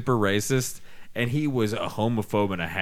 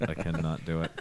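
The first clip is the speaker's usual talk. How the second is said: low, softer, weary grumble; professor quote; 7 semitones lower, 9 dB quieter than usual. Retold or imitated. The professor grumbling about Bill Cosby, low and weary. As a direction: mutter it low like a fed-up professor. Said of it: "he's like".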